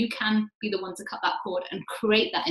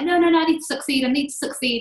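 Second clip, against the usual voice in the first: retold frantic insistence, higher and louder at first; hammed-up overworked self brushing off worry; driven insistence; 5 semitones higher, 4 dB louder than usual. Self answering partner about overworking, mock frantic insistence. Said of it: "I'm like".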